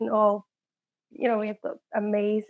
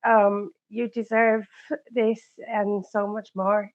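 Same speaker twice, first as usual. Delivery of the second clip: slow, tearful; slower than usual. Real, not acted. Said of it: "I'm trying not to cry".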